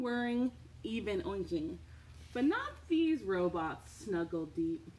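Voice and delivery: slow storybook read-aloud; reading to children. Acted. Reading a bedtime book to children, gentle storybook voice.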